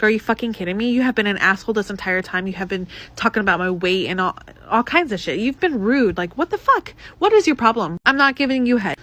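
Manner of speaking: indignant rant, rising in pitch toward the end; mildly heated retold outburst; retold telling-off. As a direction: go off on him, building as you go. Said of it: "I went off".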